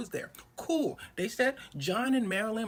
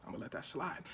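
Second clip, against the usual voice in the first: coldly quiet; 7 dB quieter than usual. Retold or imitated. Wife's cold restraint.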